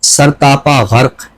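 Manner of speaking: slow, measured reading of a poem; poem recitation. Acted. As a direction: linger on each phrase. Poet recites his poem. (آہستہ اور ٹھہری ہوئی نظم خوانی)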